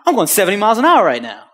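loud, high, rapid exclamation; amazed excitement. Retold or imitated. Driver realizing the truck is fixed, amazed and loud. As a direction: burst out with it in acted disbelief. Retells amazement at his speed.

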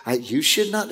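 softly mimicked pleading mother; reasoning parent imitation. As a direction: gently reason like a parent with a child. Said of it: "I see parents reasoning".

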